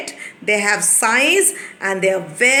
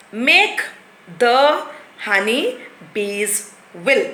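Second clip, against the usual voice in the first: slow jumbled reading; slower than usual. Shown as a demonstration. Teacher reads the jumbled words aloud slowly. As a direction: read each muddled word slowly. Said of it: "If I speak like that way".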